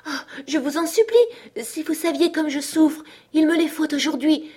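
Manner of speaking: high, tearful pleading voice; tearful begging. A narrator's reading. Hypnotised cousin pleading for the money, tearful high begging. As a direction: beg as if close to tears. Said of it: "Elle pleurait et bégayait".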